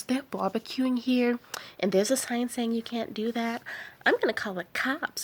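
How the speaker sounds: mock alarm. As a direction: play a newcomer fretting about danger. Acting out alarmed newcomer complaining.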